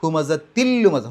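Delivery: careful tajweed demo; slow recitation demo. Shown as a demonstration. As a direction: recite ഹുമസത്തിൽ ലുമസ slowly and loudly, tanween merged. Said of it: "ഷദ്ദുള്ള ലാമ് പറയാം".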